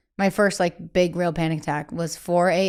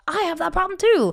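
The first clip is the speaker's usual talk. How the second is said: imitating fans; 11 semitones higher than usual. Voicing relieved fans.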